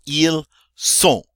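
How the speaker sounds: "ils sont." high and loud, nasal o ending; silent N and T. Shown as a demonstration. Teacher shows "they are", final letters silent. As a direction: model "ils sont." without N or T. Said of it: "I hear neither the N nor the T".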